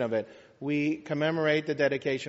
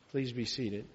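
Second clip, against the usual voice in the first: ordinary talk, nothing marked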